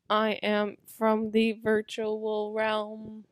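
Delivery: slow, even robot voice. Pretend. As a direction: speak like a monotone machine. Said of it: "None of them sound like robots".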